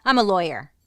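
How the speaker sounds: big self-important opener; booming mock introduction; loud mock intro. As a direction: announce it loudly like a proud lawyer. Mock lawyer intro to camera.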